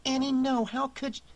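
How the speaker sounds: high, dismayed protest; horrified at what she did; mortified. Acted.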